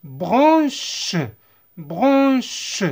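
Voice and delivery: "Branche" ending in a distinct, held "sh"; teacher sounding out "Branche". Shown as a demonstration. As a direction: linger on the final sh of "Branche". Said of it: "se prononce ch".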